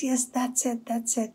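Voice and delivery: high, delighted recognition; overjoyed woodcutter. Acted. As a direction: voice lifted high with joy. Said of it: "the woodcutter is so happy".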